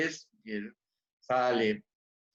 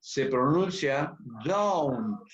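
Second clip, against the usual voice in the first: don't slowed and drawn out at the end; stress on don't; 2 semitones lower, slower than usual. Shown as a demonstration. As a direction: lean on don't slowly. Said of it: "Observen que en la forma contraída".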